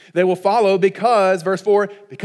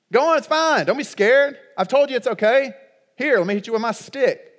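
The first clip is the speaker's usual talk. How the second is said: mock bad leader; 4 semitones higher than usual. Mocking a bad leader with stick.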